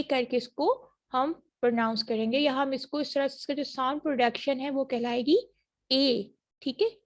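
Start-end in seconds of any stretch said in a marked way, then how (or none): 5.9-6.3 ए drawn out slowly as a clear ay glide. Shown as a demonstration. Teacher modeling the vowel for her class, slow clear ay. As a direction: sound ए slowly, ay not ah. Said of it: "तो वो वाला ये ए है".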